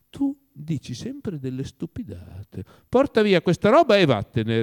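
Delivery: slow rebuke building to a loud, high dismissal; peeved master sending his servant off; irritated. A narrator's reading. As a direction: start drawn out and annoyed, then burst out. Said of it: "rispose Oblomov indispettito".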